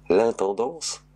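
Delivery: baffled by the word; puzzled echo. Acted. (écho perplexe, plus aigu)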